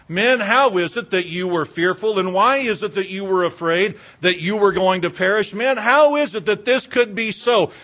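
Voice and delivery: mildly heated chiding; rebuking. Acted. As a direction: press them with insistent reproach. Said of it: "Christ turns and rebukes them and chides".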